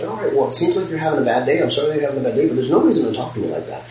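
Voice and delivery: measured, polite firmness; calm and polite. Shown as a demonstration. Tattoo shop owner to a rude customer, calm polite firmness. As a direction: soothe an upset customer but hold the line. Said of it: "And I'll say it just like that".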